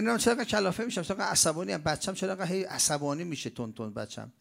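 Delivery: high, loud, fast exasperated whining; a worn-out mother venting all at once; frantic complaining parent. Retold or imitated. Preacher voicing a parent fed up with the child, exasperated. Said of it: "میگه".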